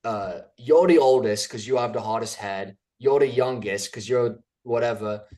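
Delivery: mock-tough Peaky Blinders line, lightly voiced; Peaky Blinders quote. Quoting Peaky Blinders to his co-host, in a lightly put-on gangster voice. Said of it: "That was good".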